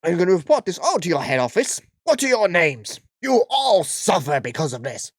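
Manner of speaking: hammed-up outraged customer; Karen voice. Karen threatening to report the store, mock outraged. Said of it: "I can't keep this voice up".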